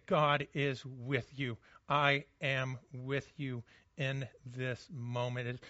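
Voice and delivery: sit beside the grieving and murmur it. Retold or imitated. Voicing quiet comforting presence.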